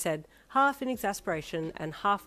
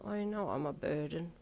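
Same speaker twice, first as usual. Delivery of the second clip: tearful; 5 dB quieter than usual. A narrator's reading. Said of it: "a tear slipped down his cheek".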